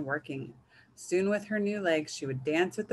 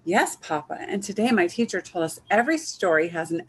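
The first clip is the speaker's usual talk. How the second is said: little chicken voice; 2 semitones higher, 6 dB louder than usual. Acted. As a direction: chirp it like an excited little chick. Child Chicken voiced in story.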